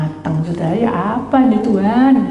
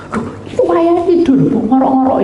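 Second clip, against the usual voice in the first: mock complaint; 11 semitones higher, 4 dB louder than usual. Mocking husband's snoring sleep.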